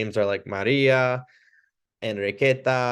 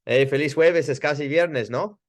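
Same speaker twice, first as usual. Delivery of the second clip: higher, bright greeting to a patient; friendly greeting; 4 semitones higher than usual. Shown as a demonstration. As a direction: hand them the ball with no?. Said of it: "I might go".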